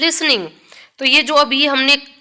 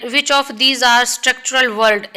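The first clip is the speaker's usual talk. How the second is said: question read-out; much slower than usual. Acted. Reads exam question slowly.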